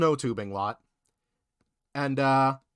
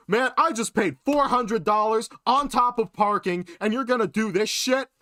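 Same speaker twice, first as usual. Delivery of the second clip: raised, higher imitation of an angry husband; a hint of a heckling tough guy; mock berating husband; 6 semitones higher than usual. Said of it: "berating me".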